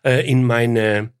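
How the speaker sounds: tipsy, words slurring together. Real, not acted. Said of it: "Lallst du jetzt, oder was?".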